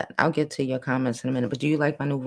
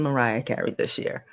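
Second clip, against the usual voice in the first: whisper; 5 semitones lower, 5 dB quieter than usual. Pretend. Repeats line in whisper.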